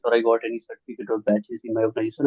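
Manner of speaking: hurried, words run together; running too fast. Real, not acted. Audience member rushing through a question to the speaker, too fast. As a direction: rush through it without clear breaks. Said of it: "you seem to be running too fast".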